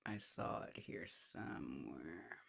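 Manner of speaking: hushed, slow whisper to herself. Real, not acted. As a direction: whisper it under your breath. Searching for a saved clip.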